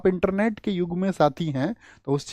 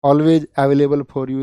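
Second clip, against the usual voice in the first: slow, measured announcement as a helper clone; lightly voiced on-call assistant, drawn out; 4 dB louder, much slower than usual. Teacher playing his own clone offering help to students, lightly voiced assistant. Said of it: "कहे तो अपना clone बनवा दूं एक".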